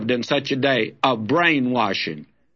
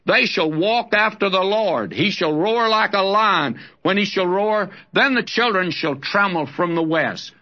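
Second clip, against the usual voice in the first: raised, ringing reading of prophecy; prophetic scripture reading; 3 semitones higher than usual. Acted. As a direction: proclaim it like a warning roar.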